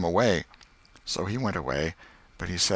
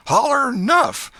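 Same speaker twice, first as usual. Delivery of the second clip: even higher, louder, slow yell; harder yell; 9 dB louder, slower than usual. Acted. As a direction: drag out the demand, pounding on. Tom pounding the boy, repeating.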